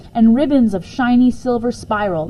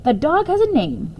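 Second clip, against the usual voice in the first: gruff growling dog; 8 semitones higher than usual. Acted. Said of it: "in his gruff, growling sort of way".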